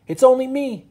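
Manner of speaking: a sing-song reassuring owl. Acted. Mister Hoot calming the frightened bears, high hooting owl voice.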